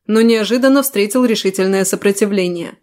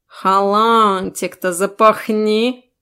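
snorting cat; much slower than usual. Acted. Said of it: "фыркнул кот".

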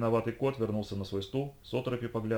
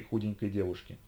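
usual speaking voice

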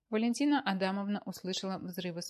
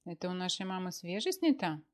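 choking indignation; 3 dB louder than usual. Acted. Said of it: "поперхнулся Мефодий Сидорович сосиской".

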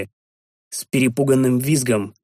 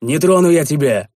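barked; 4 dB louder than usual. Acted. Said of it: "рявкнул я".

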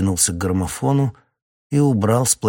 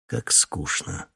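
whispered, slow and bored; 3 semitones lower, 9 dB quieter, much slower than usual. Acted. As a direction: sigh it out under breath. Bored hypnotist aside.

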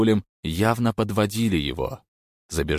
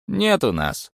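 grumbled; 11 semitones higher, 3 dB louder, slower than usual. A narrator's reading. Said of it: "буркнул Стриженный".

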